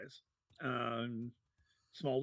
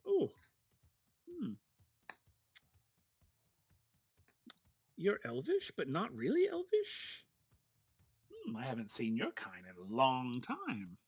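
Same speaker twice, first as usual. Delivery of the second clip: Feldwin. Acted. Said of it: "he sort of looks at you like".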